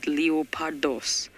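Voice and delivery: leopardos slow, each syllable drawn out in a Greek accent. Shown as a demonstration. Guide savouring the Greek word, mock Greek accent. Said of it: "Maybe that's my Greek accent".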